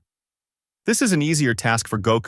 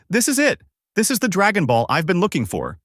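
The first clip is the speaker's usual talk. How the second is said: high-pitched, elated narrated outburst; excited mild yell; 9 semitones higher than usual. A narrator's reading. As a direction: exclaim it high, as at a great find.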